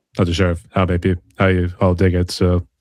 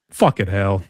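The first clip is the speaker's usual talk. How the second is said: put-on British swearing; lightly faked English accent; bad English accent; slower than usual. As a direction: curse like a Brit, badly. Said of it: "that English sort of accent".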